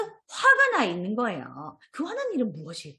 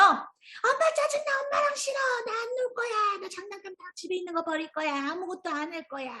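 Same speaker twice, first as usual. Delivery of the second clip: put-on whiny angry child; 10 semitones higher than usual. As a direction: play a sulky child throwing a fit. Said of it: "친구가 지금 화산처럼".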